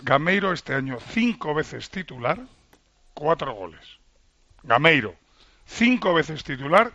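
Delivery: slow, deliberate recital of stats; measured, pointed dictation to make it register. Real, not acted. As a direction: spell it out slowly, pausing between facts. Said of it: "no me lo digas en ese tono".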